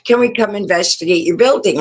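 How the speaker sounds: imitated eager request, rattled off; retold excitement. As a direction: mimic an excited guy asking fast. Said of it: "he got all excited".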